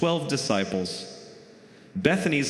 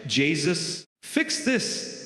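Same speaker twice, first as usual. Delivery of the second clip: whiny mom; 2 semitones higher, much slower than usual. Acted. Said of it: "she's like".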